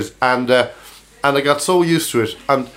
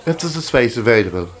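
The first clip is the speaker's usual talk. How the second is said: lightly put-on English accent; a mild attempt at an English accent; 3 semitones lower, 3 dB quieter than usual. Coach station man apologising to a traveller, lightly put-on English accent. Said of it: "There's me doing an English accent".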